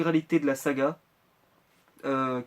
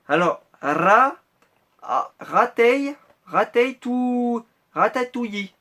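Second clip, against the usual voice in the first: put-on higher, slow, stumbling American accent; 7 semitones higher, 6 dB louder, much slower than usual. Vlogger mocking an American reading the box, in a bad American accent. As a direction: sound out ratatouille like an American tourist. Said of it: "alors j'imagine un Américain là qui regarde sa boîte".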